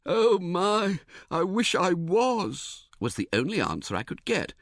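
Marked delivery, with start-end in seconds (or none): 0.1-2.9 slow, high, seasick moan; wishing he were overboard; miserable groan. A narrator's reading. Seasick man answering the narrator, miserable.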